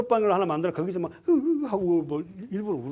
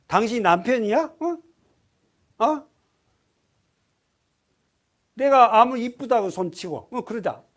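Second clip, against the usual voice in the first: louder, indignant challenge to the husband; mock angry wife; 2 semitones higher, 5 dB louder than usual. Sarah confronting the husband who sold her, mock indignant. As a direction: scold him as a wronged wife. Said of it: "사라 입장에서".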